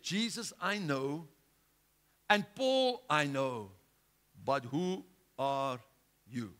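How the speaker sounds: slow, lightly voiced evil spirit; a hint of a menacing spirit; demon voice. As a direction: drag out the demon's challenge slowly. Evil spirit answers the apostles.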